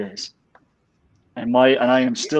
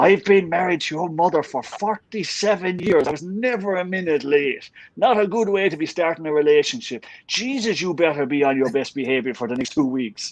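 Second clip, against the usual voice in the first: raised, exasperated father scolding his son; a hint of an Irish dad giving out; mock furious father; father's tirade; 5 semitones higher than usual. Father swearing at son, retold.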